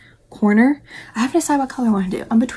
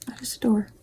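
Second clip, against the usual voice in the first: whisper; 6 dB quieter, faster than usual. Real, not acted. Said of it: "whispered repeat".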